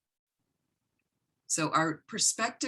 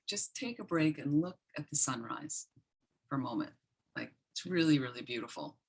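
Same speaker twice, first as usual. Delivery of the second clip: softer, gently persuading her to pause; soft coaxing; 5 dB quieter than usual. Retold or imitated. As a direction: coax her kindly toward the view, fading away. Gently urging her to look.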